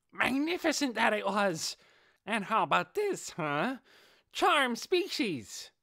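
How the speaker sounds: high, loud hamster voice calling out her spell; boastful beast shout. Acted. Giant hamster praising the clash then casting her charm spell, loud and high. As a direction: trumpet the spell name like a proud beast.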